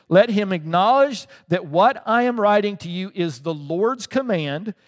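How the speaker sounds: slow, weighty stress on "let him acknowledge"; deliberate, preached stress through to "the Lord's command"; emphatic scripture reading. Shown as a demonstration. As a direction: drive home "what I am writing to you" slowly, word by word. Emphatic repeat of scripture after "listen.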